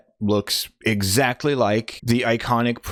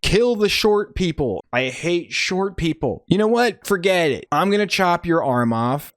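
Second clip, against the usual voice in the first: mock father; 6 semitones higher than usual. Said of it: "Father's like".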